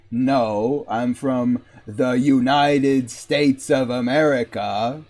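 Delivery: careful put-on American voice; American accent. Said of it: "Do an American accent".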